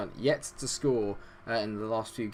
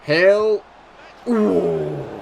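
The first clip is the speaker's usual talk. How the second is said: much higher, much louder cry at the shot; excited shout; 8 semitones higher, 11 dB louder than usual. Real, not acted. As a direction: gasp loudly as the shot flies. Shot near miss.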